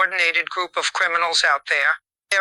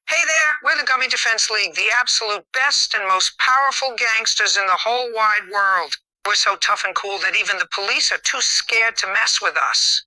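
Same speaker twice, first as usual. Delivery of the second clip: higher, fast boastful gangster impression; mocking gangster imitation, higher pitched; imitating the gang; 3 semitones higher than usual. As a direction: puff up and brag like a silly gang. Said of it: "preparing to imitate the Gummy Defense League".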